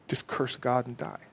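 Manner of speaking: soft, insidious tempter; whispered lies. Acted. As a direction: murmur it like a sly suggestion. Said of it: "He whispers the lies day and night".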